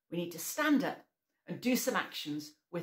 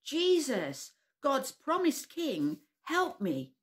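slow calling shout, higher and louder; 6 semitones higher, 4 dB louder, slower than usual. Acted. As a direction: call out to Jesus across the crowd. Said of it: "shouted very loudly".

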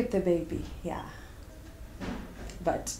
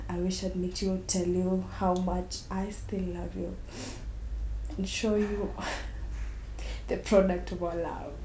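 soft, tender longing, fading quieter; wistful; 5 dB quieter than usual. Acted. Woman addressing the lover who disappeared, wistful. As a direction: speak softly to someone who is gone. Wishing to meet lost lover.

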